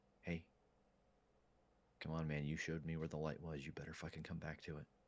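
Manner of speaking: soft, close, hushed, private half-whisper. Kneeling beside a fallen friend in character, half-whispering in his ear. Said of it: "whisper in his ear".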